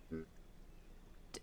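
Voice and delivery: put-on stammering child voice; startled child. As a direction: stutter in shock like a child. Child voice shocked at father.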